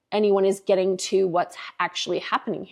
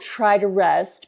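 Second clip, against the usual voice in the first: sarcastic quote; 3 dB louder, slower than usual. Retold or imitated. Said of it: "I, quote".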